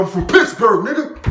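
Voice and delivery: high, loud retold taunt; re-enacted aggressive bragging; fighting boast. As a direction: yell it mid-brawl. Boasting mid-fight in retold brawl.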